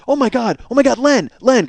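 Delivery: high, urgent calling; mother's alarm. Retold or imitated. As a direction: imitate a panicked wife calling her husband. Mother sees smoke, calls husband.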